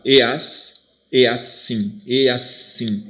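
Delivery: "E assim" with "E as" run into one syllable; vowels joined. Shown as a demonstration. Teacher showing how the same sounds join, "e assim" as linked syllables. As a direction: join the vowels in "e assim", then split off "sim". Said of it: "o mesmo som eu vou juntar".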